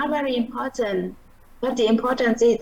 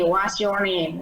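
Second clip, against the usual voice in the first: "What's your name?" said slowly, rising then falling; slow rise and fall; 2 semitones lower, much slower than usual. Shown as a demonstration. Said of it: "lên ngữ điệu, lên xuống ở trong cái câu đó". (đọc chậm "What's your name?", lên rồi xuống giọng)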